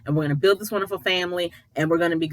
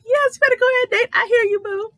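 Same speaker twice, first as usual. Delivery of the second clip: high, loud gleeful hype for Nate; excited cheering; 4 dB louder than usual. Real, not acted. Host cheering Nate on for calling out his wife, gleeful and high. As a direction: cheer him on like a fan in church. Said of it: "made me all kinds of excited".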